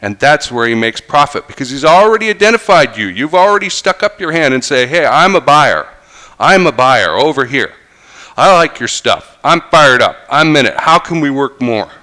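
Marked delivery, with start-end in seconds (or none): 4.9-11.9 loud, fired-up customer voice; eager buyer. Retold or imitated. Eager buyer raising a hand.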